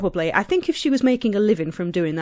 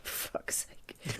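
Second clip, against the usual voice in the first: exasperated whisper under breath; whispered curse; 20 dB quieter than usual. Real, not acted. Fed up with the rabbit topic, whispering a curse.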